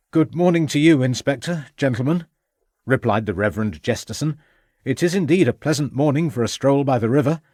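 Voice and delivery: genial Reverend. Acted. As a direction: greet the party with a touch of lilt.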